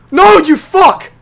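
high, loud, drawn-out yell; alarmed shout. Real, not acted. Player yelling at the game monster, alarmed shout. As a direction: yell it out at the attacker.

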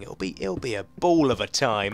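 dry sarcasm, mild and understated; sarcastic voice. Acted. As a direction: say it like you mean the opposite. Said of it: "That's my sarcastic voice".

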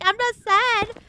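high, loud, drawn-out denial; mock protesting daughter. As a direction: protest defensively to mom, stretching it out. Her protest to mom, acted.

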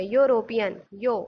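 "यूरोपियन, यो" with the opening "yo" picked out; initial Y glide. Shown as a demonstration. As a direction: say "यूरोपियन" as yo-ropian, then "यो" alone. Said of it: "इसको पढ़ते हैं".

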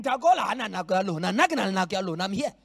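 loud, fast brag of the stand-in; preach-shouted imitation of a self-important delegate; hammed-up, boastful delegate voice; mocking arrogant delegate. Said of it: "That's how it sounds".

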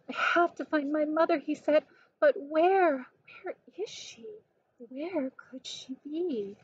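a light, high little-bird voice, worried; anxious baby bird. Acted. Baby bird asking where his mother could be, lightly voiced worried. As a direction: sound like a small lost chick.

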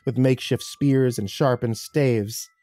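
measured horror storytelling; dramatic, deliberate audiobook reading; story narration. A narrator's reading. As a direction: narrate a grim battle, dropping at sentence ends. Reads horror story aloud.

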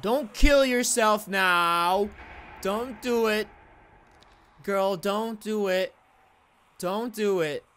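slow pleading. Real, not acted. Pleading with game character.

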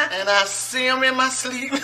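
talking through helpless laughter; high, giggling words between fits; laughing fit. Real, not acted. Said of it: "Is it really that funny".

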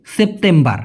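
সেপ্টেম্বর with a soft dental t instead of a hard T. Shown as a demonstration. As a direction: soften the t in সেপ্টেম্বর. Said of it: "টি এর জায়গায় শুধু ত হবে". (সেপ্টেম্বর শব্দে ট নয়, নরম ত)

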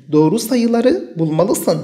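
very slow, careful reading; slow repeat. Shown as a demonstration. Teacher repeating the example for the class, very slow. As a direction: say it again slowly for the class. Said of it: "إذن نعيد".

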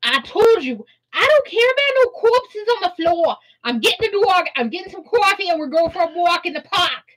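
put-on sassy attitude with accent. Brushing off the corpses again, sassy accent. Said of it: "we have to get that attitude with that accent".

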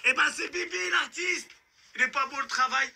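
high, proud boast; gleeful boast. Acted. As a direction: brag with sick pride. Agresseur se vante de ses meurtres. (vantardise joyeuse, aiguë)

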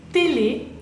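"télé" with both é sounded clearly; careful French "télé", equal é in each syllable; double accented é. Shown as a demonstration. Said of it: "Uh, doble acento".

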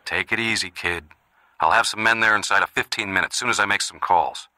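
easing down after the outburst; calming reassurance. Acted. Brother on the phone calming the kid, reassuring. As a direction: settle him down, steady and controlled.

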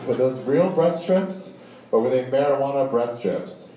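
hint hard through slow, deliberate wording; slow loaded question. Retold or imitated. Trooper hints at the right answer, slow and pointed. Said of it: "Listen to the question I'm asking you out loud".

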